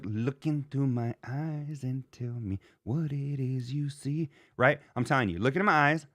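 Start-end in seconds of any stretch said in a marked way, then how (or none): 0.0-4.3 soft, slow earnest plea; a hint of a hushed, slow mock sincerity; softened plea. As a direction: quietly ask to be believed.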